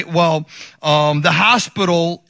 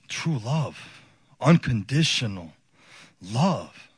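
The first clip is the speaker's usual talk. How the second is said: tender awe; 5 semitones lower, 6 dB quieter, slower than usual. Real, not acted. Moved recollection of newborn's mother.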